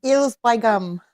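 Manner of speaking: punchy put-on Yorkshire accent. Shown as a demonstration. Showing what you gotta say, loud Yorkshire accent. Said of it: "You gotta say".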